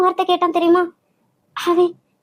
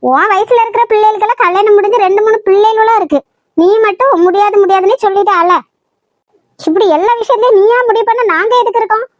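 angry scolding; 6 dB louder than usual. Acted. Mother scolding daughter over marriage.

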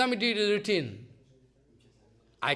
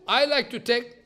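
Jagannath speaking; 2 semitones higher than usual. Retold or imitated. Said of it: "So Jagannath speaking".

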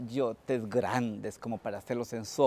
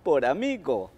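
loud, slow mocking farewell; Tío Conejo jeers at the burnt coyote from the bushes, a slow loud shout; taunting shout; 10 dB louder, much slower than usual. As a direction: jeer from behind the bush. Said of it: "le gritó".

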